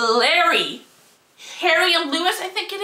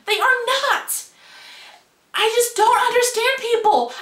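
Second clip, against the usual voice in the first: heated, higher-pitched indignant rant; getting heated; 5 semitones higher than usual. Real, not acted. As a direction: let the outrage climb as you defend her. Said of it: "Now I'm getting heated".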